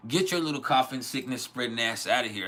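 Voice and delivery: mock-angry parental scolding; retold scolding. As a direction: tell a kid off in a half-joking rant. Retells scolding his coughing son.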